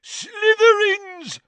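loud, slow, high yell. A narrator's reading. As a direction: bellow the name out. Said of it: "yelled Gaunt".

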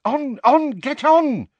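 high, loud urging; urgent command. A narrator's reading. Tonks shoving Harry onto the bus, urgently.

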